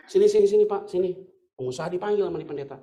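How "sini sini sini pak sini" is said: loud beckoning call; calling over. Retold or imitated. Pastor calling the businessman over, loud. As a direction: beckon him over loudly.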